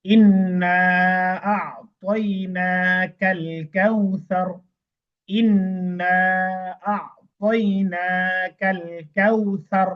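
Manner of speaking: drawn-out chanted recitation stopping on the final র of কাউসার; slow Quran recitation. Shown as a demonstration. Teacher recites the verse for students as a slow chant. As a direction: recite it slowly, stopping silent on the last র. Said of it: "যেমন".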